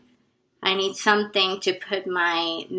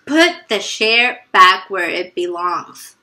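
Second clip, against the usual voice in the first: slow, firm and louder command; stern repeat; 6 dB louder, slower than usual. Retold or imitated. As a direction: lay down the order slowly. Teacher repeats her order.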